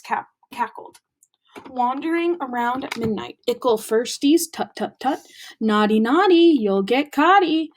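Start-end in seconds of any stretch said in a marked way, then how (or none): 1.7-7.7 lightly voiced teasing poltergeist; mocking poltergeist. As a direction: taunt them in a singsong. Peeves teasing the students.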